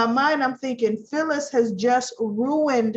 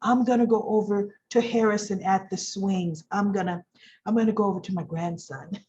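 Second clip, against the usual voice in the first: smug Diane; 4 semitones lower than usual. Retold or imitated. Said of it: "Diane says".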